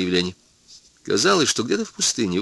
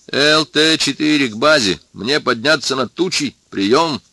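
strained pilot voice; 4 semitones higher than usual. Acted. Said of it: "послышался сдавленный голос пилота".

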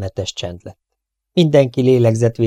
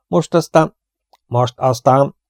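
the prince cries out, higher and louder; despairing outburst; 5 semitones higher, 4 dB louder, slower than usual. A narrator's reading. Prince cutting in, despairing and louder. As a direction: blurt it out in dismay. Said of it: "vágott szavába a herceg".

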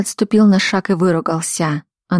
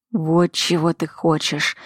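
growled. Acted. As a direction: growl it through a clenched jaw. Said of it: "прорычал он".

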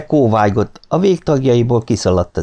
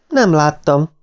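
higher-pitched mild protest; insistent; 7 semitones higher, slower than usual. A narrator's reading. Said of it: "bizonygatta Martin". (magasabb hangon bizonygatva)

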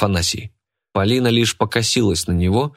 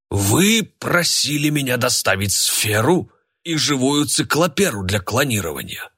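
indignant; 5 semitones higher than usual. A narrator's reading. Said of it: "возмущённо сказал Сергей Иванович".

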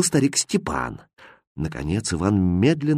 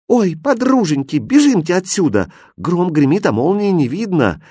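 put-on high-pitched, urgent girls' voices; acted fright, raised voice easing slightly; alarmed calling out; 7 semitones higher, 3 dB louder than usual. A narrator's reading. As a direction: urge your friends to flee. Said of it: "кричали Настенькины подружки".

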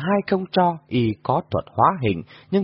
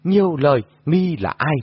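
frowning impatience; 4 semitones higher than usual. A narrator's reading. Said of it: "Đông Âm thần nữ cau mày".

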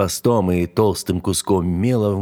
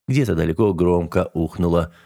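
plain reading voice

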